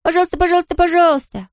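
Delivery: put-on high, eager child begging; high-pitched childlike pleading; excited cry. A narrator's reading. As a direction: plead excitedly like a small boy. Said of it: "закричал он".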